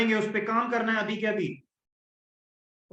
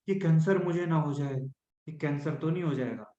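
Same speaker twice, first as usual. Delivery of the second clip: fearful worry; 3 semitones lower than usual. Shown as a demonstration. Coach demonstrating anxious self-talk, fearful and sinking. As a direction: let the fear creep in and sink. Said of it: "वो tone बिल्कुल अलग होती है".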